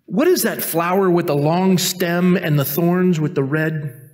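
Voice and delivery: slow, halting memory search; acted forgetful puzzlement; groping for a word. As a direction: describe it piece by piece, slowly. Joke: forgetful man searches for word.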